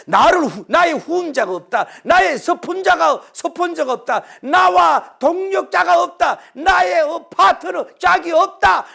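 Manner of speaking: preacher mocking a self-pitying prophet. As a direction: build a whining lament to a shout. Mimicking Elijah's self-pity.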